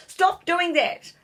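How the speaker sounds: high, loud and slow shout; a boy yelling at a flying book; yelled. A narrator's reading. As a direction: yell it at the book. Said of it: "Louis yelled".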